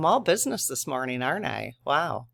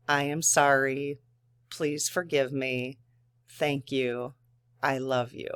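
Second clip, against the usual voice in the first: tender prayer. Shown as a demonstration. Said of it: "she says to her inner child".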